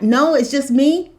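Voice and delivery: laughs through a mock-incredulous question; half-laughing, mock-amazed that nobody questions it; laughing at the absurdity; laughing disbelief. Real, not acted. Mocking disbelief, laugh heard.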